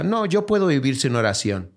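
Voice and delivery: lightly voiced, a hint of a proud doubter; imitating someone who says "puedo" without needing prayer; mock self-sufficient voice. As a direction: quote the scoffer's claim, a touch smug. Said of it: "No hay uno aquí que diga".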